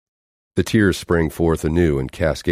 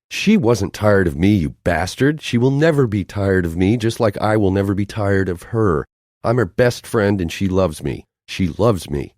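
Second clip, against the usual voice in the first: high, loud, furious defence of her friend; angry outburst; 5 semitones higher, 3 dB louder than usual. Acted. Noelle lashing out at Hector over her best friend. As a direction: snap back at him, hurt and raging.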